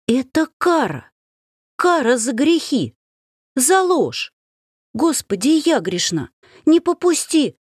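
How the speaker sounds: high panicked cries to God; hysterical pleading. Acted. The heroine cries out to God in feigned terror. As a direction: beg heaven in feigned terror.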